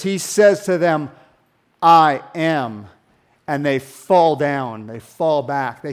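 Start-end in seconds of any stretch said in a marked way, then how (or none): 1.8-2.9 louder, weighty I am; bold declaration. Acted. Jesus declaring himself to the mob, loud and weighty. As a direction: declare it with full authority.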